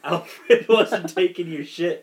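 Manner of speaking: slow, loud emphatic; animated approval; excited. Real, not acted. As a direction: lean into each word.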